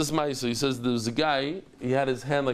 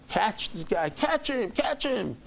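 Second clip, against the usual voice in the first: retold screaming; 6 semitones higher, slower than usual. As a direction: imitate a crowd yelling after someone. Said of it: "and they're screaming".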